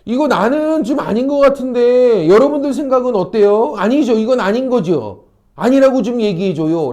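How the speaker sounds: insistent, imitated appeal for support; appealing for agreement. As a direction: act out someone urging bystanders to back them up. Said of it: "동의를 구하고 있는 거야".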